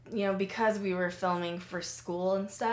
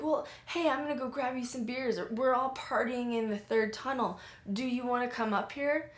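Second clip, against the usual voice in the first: higher-pitched, casual invitation; mock-friendly offer, pitched up; imitating partying stranger; 4 semitones higher than usual. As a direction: lightly voice a guy inviting you along.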